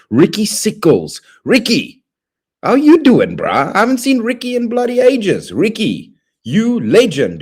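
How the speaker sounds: delighted shriek of welcome; excited high greeting. Real, not acted. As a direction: pitch way up and gush over the returning friend. Excited greeting of a returning viewer.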